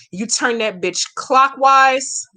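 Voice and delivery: slow, deliberate step-by-step; slow instruction. Shown as a demonstration. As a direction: spell it out slowly for the viewer. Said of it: "let me say it again slowly".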